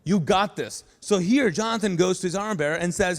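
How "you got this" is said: firm, sure encouragement; confident. Shown as a demonstration. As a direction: say it with full conviction.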